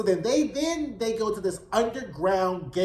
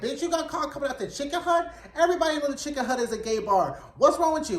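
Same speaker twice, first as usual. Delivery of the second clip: higher-pitched, exasperated retelling of a telling-off; incredulous scolding; 5 semitones higher, faster than usual. Retold or imitated. Hawk to upset George caught coming out, incredulous scolding. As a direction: scold in mock disbelief, voice pitched up.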